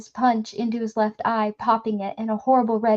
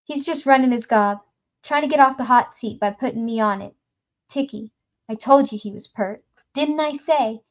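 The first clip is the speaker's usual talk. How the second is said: gruff accusing voice; 5 dB louder than usual. Acted. Gasher accusing, character voice.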